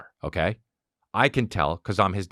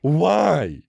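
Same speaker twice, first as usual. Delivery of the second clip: higher, stretched-out mock question; dopey gap-toothed dad; 6 semitones higher, 3 dB louder than usual. Dumb dad questions his kid, dopey gap-toothed voice. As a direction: play a clueless oaf missing teeth. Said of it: "Just with two missing teeth".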